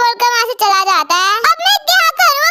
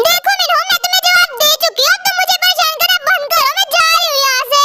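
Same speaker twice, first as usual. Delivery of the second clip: high, firm rejection; high irritated brush-off; annoyed refusal; 5 semitones higher than usual. Acted. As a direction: shut him down, fed up. Rejecting Minho firmly.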